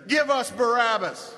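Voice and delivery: preacher echoing a mob's cry; crowd's cry. Acted. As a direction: cry it out as an assembly's demand. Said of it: "crying that very thing".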